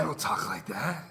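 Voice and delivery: teasing copycat; mocking echo. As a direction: parrot the protest back in his voice. Mocking repeat of friend's protest.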